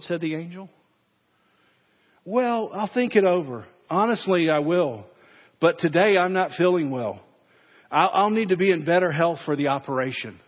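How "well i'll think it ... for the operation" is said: nervous stalling. Acted. Man stalls the angel nervously.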